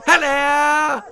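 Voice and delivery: high, loud plummy hello; posh greeting. A narrator's reading. Lady Davinia calling out as she gallops past. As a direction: call out gaily while galloping. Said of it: "waved Lady Davinia".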